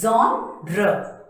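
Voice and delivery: genre as ZHON-ruh; correct pronunciation. Shown as a demonstration. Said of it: "read it out like this".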